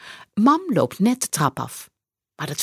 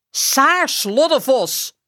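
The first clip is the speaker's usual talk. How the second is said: roepende moeder; 7 semitones higher, 3 dB louder, slower than usual. A narrator's reading. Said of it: "roept ze".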